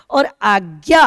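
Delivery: आज्ञा loud, with ज्ञा stressed; आज्ञा with weight on ज्ञा. Shown as a demonstration. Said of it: "ज्ञा पे ज्यादा बल दे रहे हैं".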